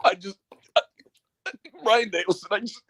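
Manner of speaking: choked-up commentator, halting between phrases; mock being too overcome to finish the sentence; Excalibur fake crying. Commentator announcing a wrestler's hospital trip, mock tearful and halting. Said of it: "Excalibur crying was too much".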